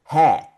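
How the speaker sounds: "he" as open German hä; H with A umlaut. Shown as a demonstration. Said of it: "La H con A umlaut".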